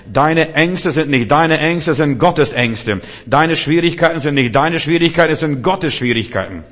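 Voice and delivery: loud, driving preacher's repetition; emphatic preaching. Real, not acted. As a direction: hammer each phrase home with force. Preacher builds a repeated rhetorical series. (laut und eindringlich gepredigt)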